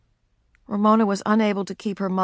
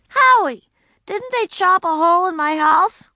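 put-on pleading girl; 11 semitones higher, 5 dB louder than usual. Ramona appealing.

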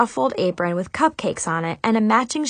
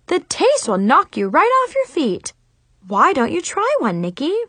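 higher, beaming cooking show pitch; perky TV chef; 6 semitones higher than usual. A narrator's reading. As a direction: gush like a TV chef host. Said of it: "in a perky T V chef voice".

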